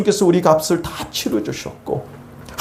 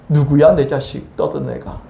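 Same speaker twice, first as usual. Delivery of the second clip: God demanding; 2 semitones lower than usual. Acted. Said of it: "하면서 내 대신 싸우신다고요".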